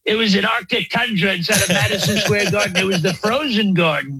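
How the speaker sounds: rambling mock-presidential boast; lightly voiced Trump parody; Trump impression. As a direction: riff like a bragging president.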